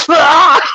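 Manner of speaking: high, loud yelp of disgust; shocked scream. Retold or imitated. Boy reacting to fingers under his nose, high, loud scream. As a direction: scream like a fresh smell hits you. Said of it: "and I go".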